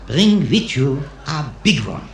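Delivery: put-on slow Israeli-accented comeback. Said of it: "And the Israeli says".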